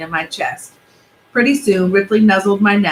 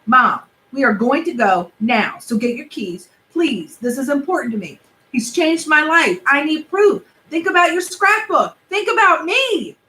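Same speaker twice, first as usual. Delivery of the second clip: lightly voiced kid, higher, begging; pleading boy; 6 semitones higher than usual. Benji begging mom to chase the car, lightly higher. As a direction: push hard, then beg.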